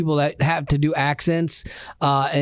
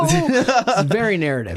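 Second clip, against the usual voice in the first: mock narrator voice; 8 semitones higher than usual. Mocking the song.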